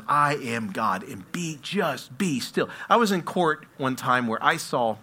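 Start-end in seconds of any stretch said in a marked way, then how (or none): 0.1-2.7 slow it right down, say it like a gentle command; slow, calm voice of God. Acted. God telling his people to be still, slow and calm. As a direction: let the stillness sit in every word. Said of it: "That God says".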